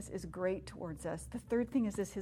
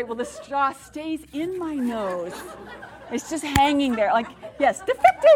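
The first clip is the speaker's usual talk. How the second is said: laughing through the words, much louder; 4 semitones higher, 9 dB louder than usual. Real, not acted. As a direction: crack up while telling it. Laughing at own mishap.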